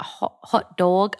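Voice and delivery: half-hearted New York accent, feeling for the word; New York accent attempt. Shown as a demonstration. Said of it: "how to do a New York accent".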